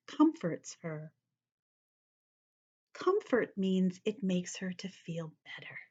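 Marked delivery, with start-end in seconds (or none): 2.9-5.8 whisper. Real, not acted. Whispered explanation.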